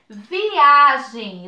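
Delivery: "viagem" mais forte e separado, vi-a-gem; palavra destacada. Shown as a demonstration. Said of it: "quando vai separar". ("viagem" dito com ênfase de professora)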